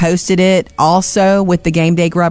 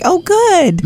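high praise for a pet; praising a pet; 12 semitones higher than usual. Pretend. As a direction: coo praise at the cat. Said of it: "did you reward him like".

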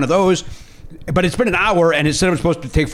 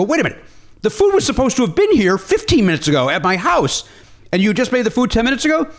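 retold exasperation; 8 semitones higher than usual. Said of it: "Jimmy Pardo losing his, uh, temper".

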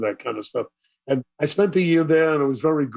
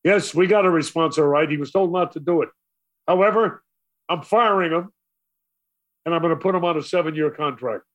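exasperated boss; 3 semitones higher than usual. Retold or imitated. Acts the exasperated boss conceding.

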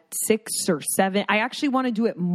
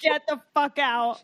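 high-pitched, scandalized outburst; mock shocked disbelief; 7 semitones higher than usual. Friends reacting at breakfast to the mayo news, shocked. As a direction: react to outrageous gossip, pitched way up. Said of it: "And they're like".

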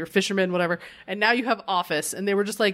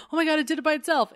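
excited; 8 semitones higher, much faster than usual. Acted. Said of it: "So she's like".

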